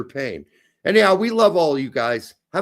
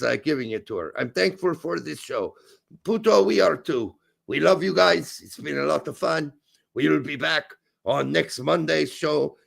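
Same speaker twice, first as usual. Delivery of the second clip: light put-on German accent; comic German accent, slipping at times. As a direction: speak English with a loose mock German accent. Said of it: "You're slowly but surely losing that, that accent".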